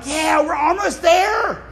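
slow, excited waiting in line; hopeful excitement. Retold or imitated.

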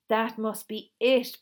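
loud, slow, triumphant; triumphant cry. A narrator's reading. Little girl crying out her discovery triumphantly. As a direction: crow it out as the answer. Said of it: "Benny cried triumphantly".

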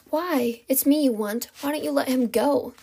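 urgent plea. Acted. Captive begs for her friend's release, urgently.

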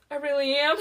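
high, loud weepy voice; mock tearful admission. Weeping employee answering her concerned boss, mock tearful. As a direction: confess through pretend tears. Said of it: "I'm, like, weeping".

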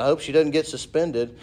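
imitating dad's Alabama accent; dad's line in a mild Alabama accent. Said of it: "Alabama accent".

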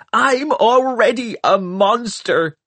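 high shriek; a bitter girl shrieking at the boy. A narrator's reading. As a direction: hurl it back at him. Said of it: "she shrieked".

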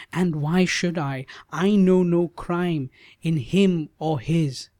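high but steadier repeated why; firm maiden. Acted. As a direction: press the question calmly now. Savitri repeats protest.

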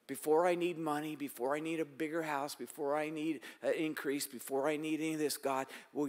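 heartfelt spoken prayer to God; pleading for the kingdom, earnest prayer. Acted. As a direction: pray it out sincerely.

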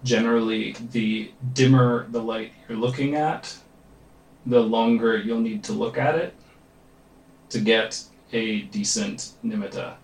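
calm, measured meditation guide with long pauses; guided meditation. Real, not acted. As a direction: lead them gently into focus, leaving space between phrases. Leads a meditation.

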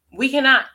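"cannot" punched hard and loud; loud emphasis. Shown as a demonstration. Preacher driving home to the congregation that "cannot" is final. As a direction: hit "cannot" like a hammer. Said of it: "Hear me when I say".

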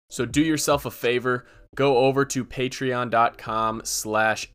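upbeat host intro read; podcast intro read. Acted. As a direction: read it like a show opener. Podcast intro read over music.

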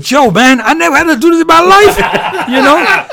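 high-pitched quote broken by laughter; laughing retelling. Retold or imitated. Boxer retelling his fuming trainer's complaint, laughing and high. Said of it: "He said".

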